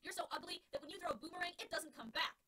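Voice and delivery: high, loud jeering; taunting insult. Acted. Alex taunting the pitcher, high and loud. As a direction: lay the insult on thick.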